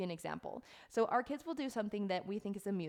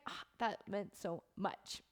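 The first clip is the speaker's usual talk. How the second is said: touched; 4 dB quieter, slower than usual. Retold or imitated. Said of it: "I'm like".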